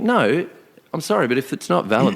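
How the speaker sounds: retold rising panic; mock pleading with the ticket man; flustered protest. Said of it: "And she's like".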